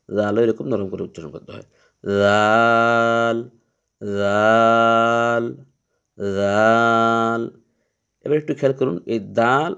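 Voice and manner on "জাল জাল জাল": জাল said softly, very slowly; slow, soft demo of জাল; soft dhal. Shown as a demonstration. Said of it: "জালটাকে একটু নরম করে উচ্চারণ করতে হয়".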